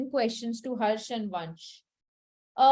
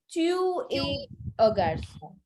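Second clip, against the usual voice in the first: slow French model. Shown as a demonstration. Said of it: "I will say".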